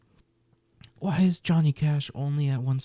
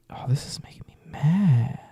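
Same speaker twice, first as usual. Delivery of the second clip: whisper. Real, not acted. Annoyed at the rankings.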